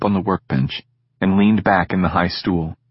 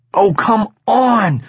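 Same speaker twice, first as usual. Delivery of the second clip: drawn-out, higher, begging; pleading whine; 13 semitones higher, 4 dB louder, much slower than usual. Acted. Egan begging Sid to come to the party, whining. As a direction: beg him not to refuse.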